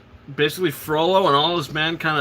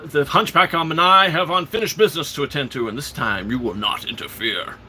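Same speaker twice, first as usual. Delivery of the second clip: imitating villain. Acts out Frollo's threatening line.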